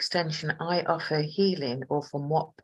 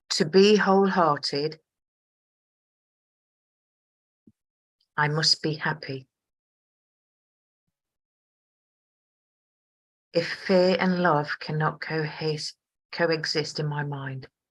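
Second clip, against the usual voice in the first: chunked delivery, three or four words, then pause; 4 dB louder than usual. Reading a passage aloud as instructed, pausing every few words. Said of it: "Just say three or four words at a time and pause".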